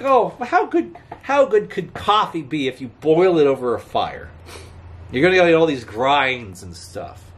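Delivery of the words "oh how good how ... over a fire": mock doubtful scoff. Mocking doubters of campfire coffee.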